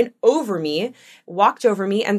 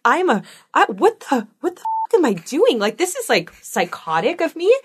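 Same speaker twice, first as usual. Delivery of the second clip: inner panic; 4 semitones higher than usual. Retold or imitated. Mom horrified at her own threat, high and shocked. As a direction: play her own disbelief at herself. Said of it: "in my head, I'm like".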